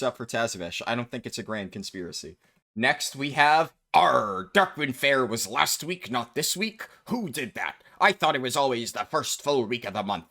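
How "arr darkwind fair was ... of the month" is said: light pirate voice reading a post. Retold or imitated. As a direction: read it like a playful pirate. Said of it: "I felt like doing a pirate voice".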